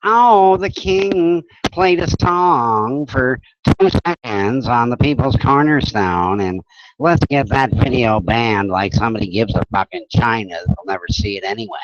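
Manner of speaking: whiny douchebag voice. Retold or imitated. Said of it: "some douchebag would whine".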